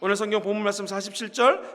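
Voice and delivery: ordinary talk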